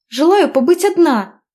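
put-on irritated young woman; cold retort. A narrator's reading. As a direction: shut him down coldly. Heroine snapping at passenger.

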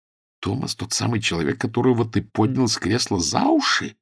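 hushed, dropped-away horror on "Томас"; horrified. Acted. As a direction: friend horrified, learning who the boxer is. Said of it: "ужаснулся я".

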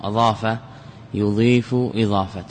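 slow paradigm. Shown as a demonstration. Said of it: "هذا مصدر أضاف".

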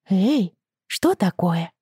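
alarmed. Acted. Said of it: "встревожилась Рэйчел".

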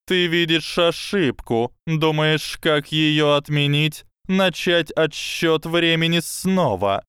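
high, slow lecturing snake voice; slow hypnotic serpent hiss. Acted. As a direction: coil the words around him slowly.

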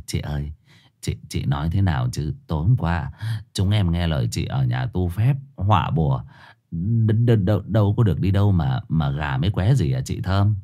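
low, soft timid pleading; sheepish plea. A narrator's reading. Boy pleads to Thơm, low and soft.

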